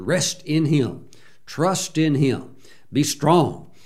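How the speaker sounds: slow, calm encouragement; reassuring. Real, not acted. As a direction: settle the listeners, slowly.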